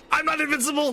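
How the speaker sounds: shrieking high mock despair; megalomaniac rant. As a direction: wail it like a fallen villain. Sudden loss.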